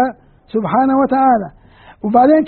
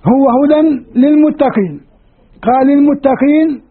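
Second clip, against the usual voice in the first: slow quotation; 2 semitones higher, slower than usual. Shown as a demonstration. Teacher quoting the verse slowly.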